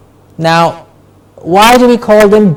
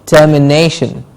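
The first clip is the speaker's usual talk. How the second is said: "Termination" with the beat on "na", ter-mi-NAY-shun; stress on NA. Shown as a demonstration. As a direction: model "Termination" carefully, stressing "na". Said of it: "The ne gets a stress".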